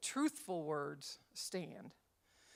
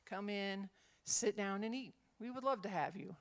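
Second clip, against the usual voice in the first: welcoming. Shown as a demonstration. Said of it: "Means different things".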